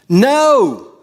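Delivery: sharp high shout of no; sudden no. Retold or imitated. Preacher breaking the sweet picture with a shout. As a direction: cut in loud with a high no. Kids fighting in back seat.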